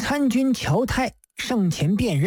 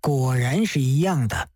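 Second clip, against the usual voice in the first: 低声叹道; sighing Judge Dee; 8 semitones lower than usual. Acted. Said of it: "叹道".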